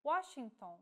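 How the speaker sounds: Washington with W said like the vowel U, as in English; Washington, W sounds like U; word demo. Shown as a demonstration. Teacher models Washington for learners, careful pronunciation. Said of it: "follows the pronunciation of the language of origin".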